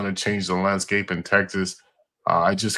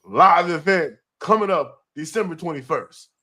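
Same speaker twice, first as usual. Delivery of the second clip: hype announcer; 6 semitones higher than usual. Acted. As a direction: call it like a ring announcer. Announces the next event.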